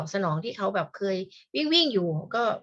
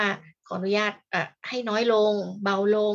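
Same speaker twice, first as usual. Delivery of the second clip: polite slow request; slower than usual. Retold or imitated. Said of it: "ต้องไปขออนุญาตหมอก่อนนะว่า".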